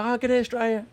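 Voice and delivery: put-on drunk American bro. Drunk American greets Australia on camera.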